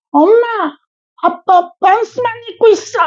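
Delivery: put-on high, childlike tattling voice; imitating his daughter. Teacher imitating his daughter catching him undressed, high childlike. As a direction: squeal it like a little girl catching dad. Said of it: "큰 애가 방문을 딱 열더니".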